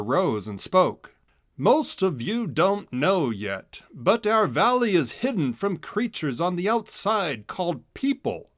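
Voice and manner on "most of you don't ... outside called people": put-on grave official speaking to the children; lightly voiced mayor. A narrator's reading. Mayor revealing the hidden valley to students, lightly solemn.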